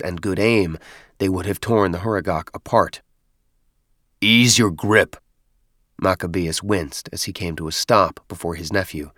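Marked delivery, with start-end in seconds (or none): 4.2-5.2 lightly voiced stern chieftain; a hint of an injured leader's command. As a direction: order your nephew with restrained authority. Injured chieftain orders nephew.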